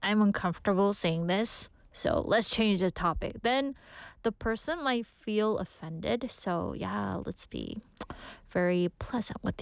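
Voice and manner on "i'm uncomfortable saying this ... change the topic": mildly displeased, measured and unsmiling; unpleasant, uncomfortable. Shown as a demonstration. Host shows listeners how not to change the topic, mildly displeased. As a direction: object stiffly, showing mild discomfort. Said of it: "make that face and be like".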